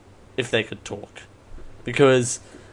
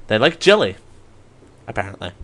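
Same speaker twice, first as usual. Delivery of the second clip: normal talking voice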